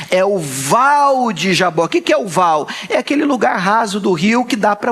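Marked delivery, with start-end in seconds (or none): 0.1-2.0 "val" said short with an open vowel, no final e; val not vale. Shown as a demonstration. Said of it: "Não, não é o vale". ("val" curto, sem o e final)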